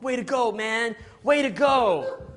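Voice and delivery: high, loud, stretched-out bro cheer; hammed-up friends cheering him on; cheering buddies.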